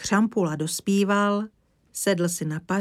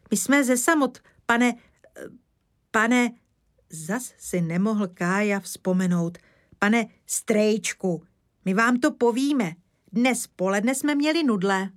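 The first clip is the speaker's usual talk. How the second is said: put-on higher-pitched boy, hesitating then eager; eager child; 4 semitones higher, 4 dB louder than usual. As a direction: play a small boy telling news. Kája the boy speaks. (horlivý klučičí hlas)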